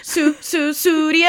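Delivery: mock stutter. Shown as a demonstration. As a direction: stammer before the word. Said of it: "There goes that stutter".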